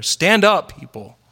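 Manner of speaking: preacher urging the congregation to stand up; rallying call. Real, not acted. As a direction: rouse the room to its feet.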